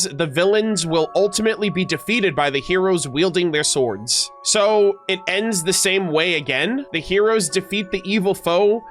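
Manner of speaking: deliberate, dramatic storybook reading; story narration. Acted. Streamer reads a tale of heroes to chat, storytelling delivery. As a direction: read it like a fairy tale.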